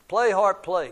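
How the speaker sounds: loud giant's command, lightly acted. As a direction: order it out loudly. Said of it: "commanded the giant".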